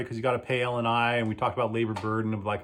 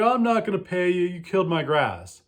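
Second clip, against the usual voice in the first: mock angry customer; 6 semitones higher than usual. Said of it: "the guy got mad".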